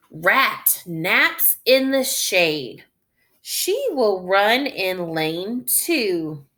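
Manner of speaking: slow, clear read-aloud; reading to children. Acted. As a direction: read slowly for beginning readers. Reading story text aloud.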